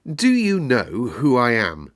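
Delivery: put-on a haughty boy's question, stress on do; boy challenging the gardener, demanding. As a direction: lean on do like a little rajah. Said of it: "demanded the Rajah".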